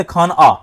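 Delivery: खाना broken wrongly as "खान आ"; wrong split. Shown as a demonstration. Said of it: "इसको आप ऐसे नहीं बोल सकते". (खाना को "खान आ" तोड़कर बोलना)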